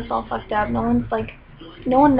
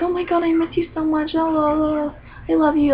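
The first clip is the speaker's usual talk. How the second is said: gushing fake friend; 5 semitones higher than usual. Mocking gushing acquaintance.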